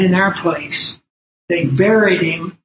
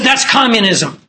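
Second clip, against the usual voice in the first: raised, insistent accusation; repeated angry outburst; 4 semitones higher than usual. Retold or imitated. Heckler repeating himself at the preacher, indignant. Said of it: "practically frothing at the mouth".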